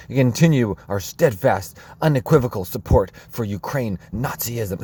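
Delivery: put-on a light Trudeau accent, reading his statement; a hint of a Trudeau accent as mockery. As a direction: parody the prime minister's accent, half-serious. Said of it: "I should have stopped the accent".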